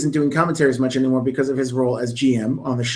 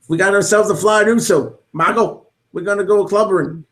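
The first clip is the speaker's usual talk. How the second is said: higher mock announcer catchphrases; mocking sound-bite commentator; 5 semitones higher than usual. Fan mocking the commentator's sound bites, higher hammed-up announcer. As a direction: ham up the empty catchphrases. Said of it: "speaking in sound bites like the rest".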